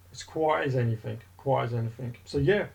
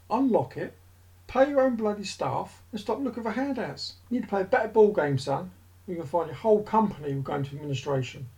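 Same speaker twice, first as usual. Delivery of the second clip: rant; 3 semitones higher than usual. Real, not acted. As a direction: lay into him, voice climbing as you vent. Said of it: "that's my rant done".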